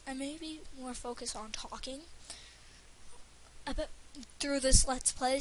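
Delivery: tripping over words; halting, stumbling delivery; stuttering. Real, not acted. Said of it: "see, I'm already stuttering".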